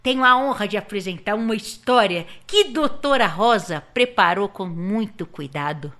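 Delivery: clown ringmaster announcing; grand circus announcement, lightly played. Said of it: "doutora Zabeinha". (apresentadora de circo palhaça)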